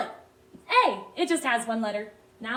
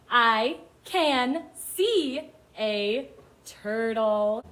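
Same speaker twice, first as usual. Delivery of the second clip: very slow, separated words; each word stretched with a gap after; word-by-word reading; much slower than usual. Shown as a demonstration. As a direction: read it out slowly for beginners to follow. Children read along.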